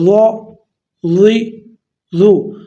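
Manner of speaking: زا، زی، زو said thick and full-mouthed; heavy. Shown as a demonstration. Teacher modelling heavy ظ sound for students. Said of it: "موٹا پڑھنا ہے".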